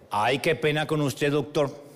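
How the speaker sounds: slow, drawn-out Colombian apology; apologetic Caleño accent. Retold or imitated. Hotel clerk apologizing to guest, Caleño accent. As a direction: imitate a Cali clerk's deferential regret. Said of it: "me dice con su acento caleño".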